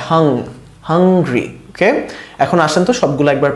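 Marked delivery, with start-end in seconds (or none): 0.1-1.6 হাং slowly on its own, then হাংরি; ng sound shown. Shown as a demonstration. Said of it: "এন জি হলে এরকম হয়".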